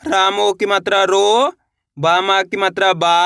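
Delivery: slow sounding-out, "रो" and "बा" held long; syllable-by-syllable spelling. Shown as a demonstration. Teacher answering how the letter is read, slowly spelled out. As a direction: stretch "रो" upward, then sound out "बा". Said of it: "तो रा को कैसे पढ़ेंगे?".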